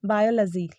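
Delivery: "बायोलॉजी" as BY-uh-luh-zee; short "luh-zee" ending in "बायोलॉजी"; correct pronunciation. Shown as a demonstration. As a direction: model "बायोलॉजी" with no "law". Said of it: "pronunciation है ना वो है".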